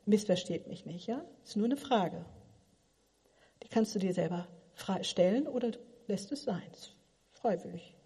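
normal talking voice

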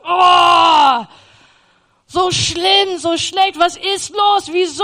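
loud, high anguished outcry; retold despair, loud and high; despairing cry. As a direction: cry out at how bad it is. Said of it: "Ich dachte".

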